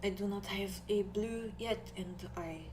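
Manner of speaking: put-on halting, softly accented speech; Nori's foreign accent. Game master as quiet Nori discussing polish, shy accent. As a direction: speak shyly in a put-on accent. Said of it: "It's the accent".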